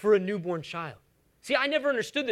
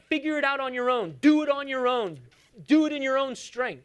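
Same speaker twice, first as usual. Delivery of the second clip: raised-pitch mock scolding; higher, hard-line mock orders; mock uncaring God; 5 semitones higher than usual. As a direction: preach it as a put-on telling-off. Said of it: "He doesn't say".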